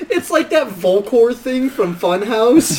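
slow macho barbarian growl; hammed-up barbarian bro, drawn out. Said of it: "I call it El Macho".

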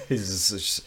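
talking between coughs; words squeezed out through a cough; coughing fit. Real, not acted. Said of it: "I apologize for all the coughing".

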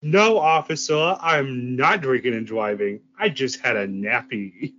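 slow, slurred mock drunk. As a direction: plead to a cop, tipsy. Mock drunk plea to an officer.

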